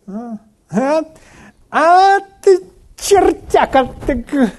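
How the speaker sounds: high, drawn-out mocking imitation; mock slangy outburst. Preacher mimics young people praising with bad words, mock outburst. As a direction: stretch it out high like a hammed-up exclamation.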